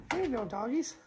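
high cooing voice; playful pet talk. Pretend. Host playfully talking to the doggies, high cooing. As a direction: coo it high, as if to little dogs. Playfully addressing toy dogs, actually bears.

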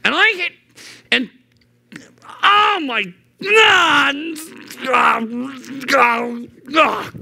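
high strangled cry of frustration; hammed-up frustrated shouts; wordless frustration. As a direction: sputter out like you've lost your words. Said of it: "Where you're just like".

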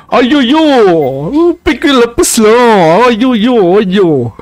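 put-on playful sing-song Indian accent. Gamer clowning over the game, mock Indian accent. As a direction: lament in a hammed-up Indian accent. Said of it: "I love the Indian accent".

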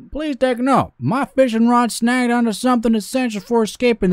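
high-pitched southern storytelling voice; southern note writer, fearful. Pretend. Gamer reading a worried fisherman's note, southern character voice. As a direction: read it as a hammed-up southern fisherman.

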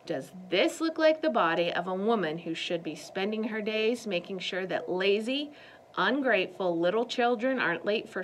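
a hint of a boastful strongwoman, chest out; lightly voiced muscle woman scolding two kids; muscle-proud landlady. Miss Girk speaks at length.

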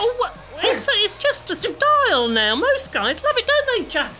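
high, laughing faux-innocent; airy fake surprise; mock innocence. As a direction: laugh it off, pretending nothing's wrong.

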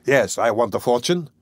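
firm, understated answer. A narrator's reading. Lodger answering the servant's challenge about money, firm. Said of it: "he answered firmly".

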